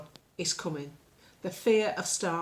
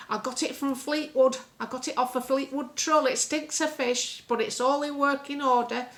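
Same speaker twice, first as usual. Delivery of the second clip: put-on louder, higher fretful old lady; 4 semitones higher, 4 dB louder than usual. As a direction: play a worried old dear on the phone. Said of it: "Missus Battersby as this character".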